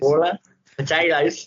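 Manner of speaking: "Water, potatoes" in mock Aussie-Kiwi; antipodean accent. Echoing the co-host's party trick, Australian accent. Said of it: "the only thing that I can say".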